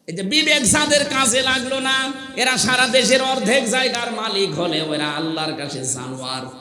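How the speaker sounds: high, insistent sermon voice; forceful preaching. Real, not acted. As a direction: drive each point home to the crowd. (জোরালো ওয়াজের উঁচু গলা)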